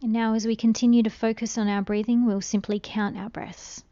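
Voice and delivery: soft, calm meditation voice with long pauses; unhurried, hushed guidance through breathing; guided meditation. Real, not acted. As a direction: gently guide a listener into stillness, letting phrases trail softly.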